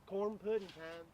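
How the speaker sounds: slow Southern drawl, played up; Southern accent for show; put-on Southern accent. Shown as a demonstration. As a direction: stretch it out in a teasing Southern accent. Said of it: "put on my southern accent".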